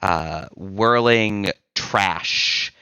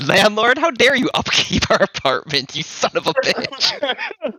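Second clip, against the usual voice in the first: much higher, louder eerie ghost voice, slowing at the end; angry ghost; 3 dB louder than usual. Acted. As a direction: play the vengeful spirit, stretching the curse out. The mad ghost speaks.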